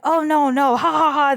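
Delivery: hammed-up jovial brush-off; mock laughing denial. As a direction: imitate men laughing it off. Retold men laughing off the question.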